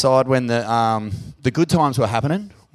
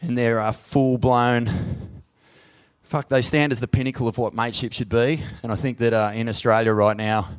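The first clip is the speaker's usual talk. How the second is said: choked up; 4 semitones lower, 4 dB quieter than usual. Real, not acted. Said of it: "I get emotional thinking about it".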